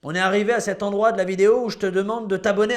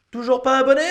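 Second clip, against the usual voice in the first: louder, impatient question; 3 semitones higher, 4 dB louder, faster than usual. Acted. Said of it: "asks twice, differently".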